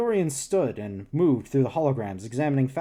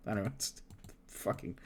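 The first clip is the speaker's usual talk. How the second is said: whispered; 5 semitones lower, 16 dB quieter than usual. Real, not acted. Muttered under breath.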